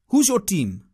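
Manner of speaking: imitated street seller's foreign accent. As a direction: quiz them in a put-on foreign accent. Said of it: "excuse my horrible accent".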